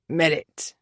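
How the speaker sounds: low, tasting the name; Keir repeating. Acted. Keir repeating Merritt's name, low and wondering. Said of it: "he repeated".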